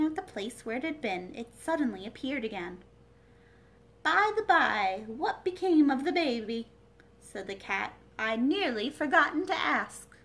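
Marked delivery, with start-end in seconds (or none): 4.0-10.1 louder, offhand Cat; Cheshire Cat voice. Acted. Cat reappears, asks.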